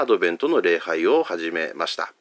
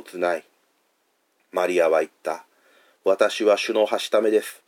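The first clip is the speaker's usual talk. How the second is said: scripture reading. Acted. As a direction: read the Gospel aloud to the congregation. Reads Luke passage aloud. (聖書朗読の落ち着いた読み方)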